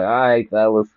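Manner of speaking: slow, lightly voiced stoned host signing off; imitating a stoned streamer. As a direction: drag out the goodbye like you're high. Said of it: "you be like".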